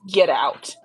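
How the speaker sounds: mock-demonic order; little demon voice. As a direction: parrot playing a demon. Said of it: "like, a little demon voice".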